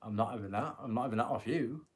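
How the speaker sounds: broad Yorkshire refusal; no-nonsense Yorkshire voice; Yorkshire accent. Shown as a demonstration. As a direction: put your foot down in a Yorkshire accent. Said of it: "in a Liverpudlian accent, but it's, if you think Yorkshire".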